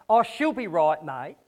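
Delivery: a light, offhand Australian twang on the catchphrase; casual Aussie. Retold or imitated. Preacher mimicking a flippant Aussie brush-off, light Australian accent. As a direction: toss it off like a carefree Aussie mate. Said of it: "I don't believe God is a good Aussie".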